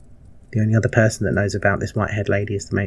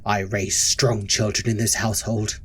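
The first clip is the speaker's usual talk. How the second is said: stern matron, hushed. Acted. Matron explains her cruelty to Ebony, hushed and stern.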